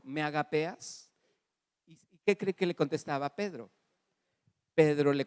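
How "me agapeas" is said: slow teaching line. Acted. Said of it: "Jesús le decía".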